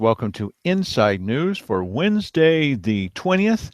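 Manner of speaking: rough, gravelly speaking voice. Real, not acted. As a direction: talk with a gravelly rasp. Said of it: "both of us are gonna be speaking in kind of a gravelly voice today".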